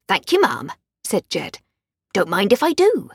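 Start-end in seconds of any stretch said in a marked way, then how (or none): 0.1-0.7 put-on Yorkshire accent. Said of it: "hadn't softened his broad Yorkshire accent". 2.1-3.1 put-on Yorkshire accent. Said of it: "hadn't softened his broad Yorkshire accent".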